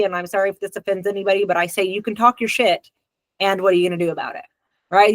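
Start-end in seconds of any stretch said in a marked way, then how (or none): 1.8-4.4 brisk, blunt push to act; "and what are you gonna do about it" rattled off fast; blunt therapist challenge. Shown as a demonstration. Therapist to client, brushing off the rant, fast and blunt. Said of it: "this is how I say it in individual therapy".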